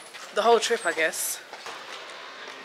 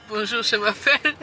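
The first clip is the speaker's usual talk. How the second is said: mock schoolroom French. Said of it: "when they teach you to say".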